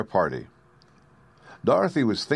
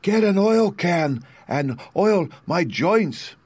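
higher, slow, rusty-sounding tin man; pleading tin man, higher and slow; creaky Tin Woodman; 10 semitones higher, 4 dB louder, slower than usual. A narrator's reading.

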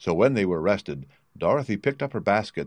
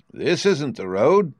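lightly voiced stork, higher, slow and firm; stork's reply; 5 semitones higher, 3 dB louder, slower than usual. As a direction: slowly tell them they are lost. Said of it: "said the stork".

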